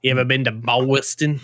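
"Boston" as BOW-iston, attempted accent. Shown as a demonstration. Friend still trying it out, Boston accent. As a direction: ask it in a put-on Boston accent. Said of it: "Appreciate the commitment to trying to get it".

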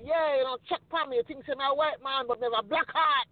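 put-on quoting the friend's Jamaican accent with pride. Jamaican guy answering the kids on the train, in a Jamaican accent. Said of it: "but with a real Jamaican accent".

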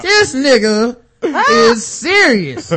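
loud, laughing cry of disbelief. Real, not acted. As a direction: lose it laughing at the scene. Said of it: "laughing disbelief".

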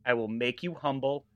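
lightly voiced wrestling heel threat; Iron Sheik. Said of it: "This is for the Iron Sheik".

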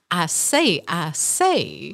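Foghorn Leghorn. Retold or imitated. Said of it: "Foghorn Leghorn".

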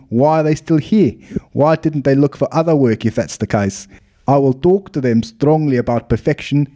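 put-on lightly done South African accent, rolled R's. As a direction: read it as a South African hotel owner. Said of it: "can I do it in South African accent".

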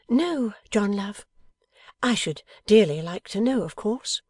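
put-on high, tender young wife's voice; high-voiced loving wife; devoted wife. A narrator's reading. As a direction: answer him in a lifted wifely voice. Wife answers her husband, voiced.

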